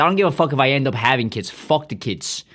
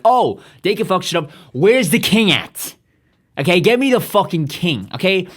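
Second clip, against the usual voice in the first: raised, higher voice, acting out an uprising; mock rebel demand; 5 semitones higher, 3 dB louder than usual. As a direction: demand it like a riled-up mob. Acting out French rebels demanding king.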